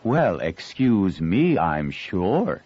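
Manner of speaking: slow, mock-haughty excuse me; affected tone. Girl teasing the rude boy, mock-haughty affected tone. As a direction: put on airs, teasing. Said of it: "she said in an affected tone".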